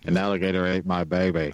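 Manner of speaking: put-on Australian accent. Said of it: "went to an Australian attempt".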